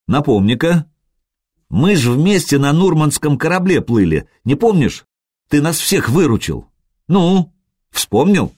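put-on playful girl asking him to remember; lightly voiced young girl. Girl reminds Sergey, coaxing.

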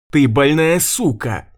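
high, loud shriek of rage. A narrator's reading. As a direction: scream it at her. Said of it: "завизжала дочь Евы". (пронзительный визг)

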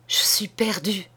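a hushed, breathless whispered confession; a desperate woman whispering her secret to the doctor. Acted. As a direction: whisper it as if afraid to be overheard.

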